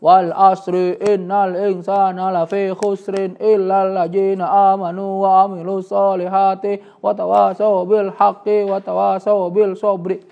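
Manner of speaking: rushed, careless reading of Al-Asr; mock careless recitation; wrong recitation. Shown as a demonstration. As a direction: rattle through it as people usually do. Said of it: "itu kan sempurna banget salahnya".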